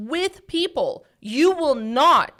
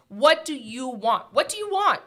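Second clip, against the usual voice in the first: insistent repeated question. Retold or imitated. Coaching her team, pressing them for an answer, rising insistence. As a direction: push them to name what they want.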